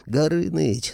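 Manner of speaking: high yelled name to snap attention; yelling the name. A narrator's reading. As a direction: call him out sharply. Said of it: "заорал я".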